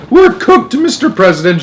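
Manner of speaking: very high, loud despair; shouting. A narrator's reading. Astronaut to president, doomed, shouting. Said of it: "shouted Shanks".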